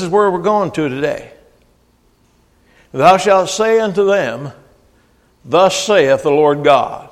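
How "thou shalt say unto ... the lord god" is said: solemn reading. Acted. Slow solemn scripture reading.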